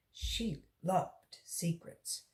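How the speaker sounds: slow, hushed storybook whisper; secret whisper. A narrator's reading. Reader whispering to the children, hushed and slow. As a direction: lean in and whisper it like a shared secret. Narrator shares a delighted secret.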